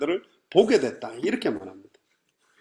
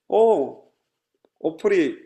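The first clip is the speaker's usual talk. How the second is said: restrained, unexcited imitation of a winner; mock muted gratitude; understated polite thanks. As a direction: give a small, contained thank-you. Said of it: "이렇게 하고 끝났냐?".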